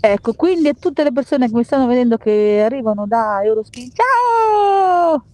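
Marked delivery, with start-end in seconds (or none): 3.9-5.2 shouted greeting. Real, not acted. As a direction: shout hello to the viewers. Greeting viewers from Eurospin.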